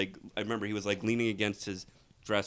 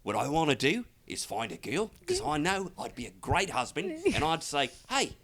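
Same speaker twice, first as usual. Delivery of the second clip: higher, earnest dating-show contestant; earnest dating-show guy; 6 semitones higher, 3 dB quieter than usual. Retold or imitated. Dating-show guy describing the girl he wants, earnest. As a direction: imitate a sincere hopeful suitor, higher pitched. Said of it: "I love the guy who's like".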